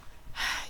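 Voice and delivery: noisy slurp of a drink. Real, not acted. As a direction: slurp from a cup. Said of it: "Excuse my slurping".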